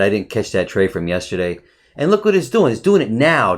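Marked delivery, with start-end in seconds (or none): 2.0-3.6 exasperated. Real, not acted. Trader exasperated watching the chart.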